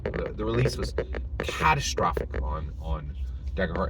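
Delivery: hushed, voiceless and soft; whisper. Real, not acted. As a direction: drop to a grim whisper. Keeps whispering after the repeat.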